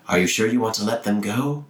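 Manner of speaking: put-on lightly done Russian accent, patchy; a hint of a Russian accent, slipping in and out; inconsistent Russian accent. Quicksilver whispering to his sister, light Russian accent. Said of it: "in a Russian accent".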